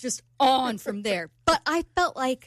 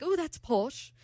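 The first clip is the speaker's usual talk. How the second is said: put-on softer amateur British accent; 3 semitones higher, 5 dB quieter, slower than usual. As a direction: imitate a British man's remark. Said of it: "who's saying what when you do it".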